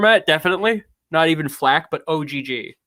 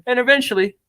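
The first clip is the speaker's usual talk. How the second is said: high East Coast character voice; tough-guy character; 8 semitones higher, faster than usual. Acted. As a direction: keep up the put-on streetwise accent. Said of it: "I'm going back to British now".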